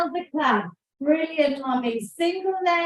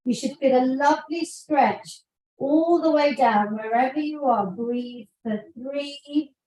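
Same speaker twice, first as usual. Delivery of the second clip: calm stretching guide; 2 semitones lower than usual. Acted. Leads cool-down stretch.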